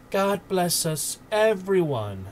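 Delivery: put-on high, slow little boy's blessing; small boy's voice. A narrator's reading. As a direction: echo it as a gentle small child. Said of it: "echoed Tiny Tim".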